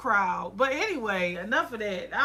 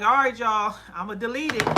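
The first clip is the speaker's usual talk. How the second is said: loud call to the crowd; 6 dB louder than usual. Retold or imitated. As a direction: announce it loudly to everyone. Calling out to viewers.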